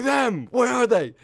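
high, loud urgent retort; reenacted hype exchange. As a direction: shout back at a hyped teammate. Shouted back-and-forth hype routine.

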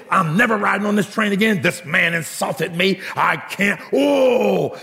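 hammed-up indignant complaint; livid. Insulted mother complaining to the conductor, mock livid. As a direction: play the outraged passenger, ending in a wail. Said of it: "She got livid".

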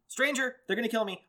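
playfully overdone suspicion; mock alarm. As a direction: imitate a panicky neighbor's online post. Mimicking alarmed neighbors online.

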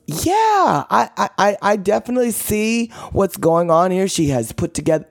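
high, mock English accent; attempted English accent. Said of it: "my English accent again".

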